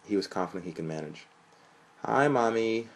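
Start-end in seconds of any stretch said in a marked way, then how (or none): 2.0-2.9 higher, louder cheerful greeting. A narrator's reading. Son greeting his mother on the phone, cheerful. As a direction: chirp it happily down the phone. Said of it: "Sean said cheerfully".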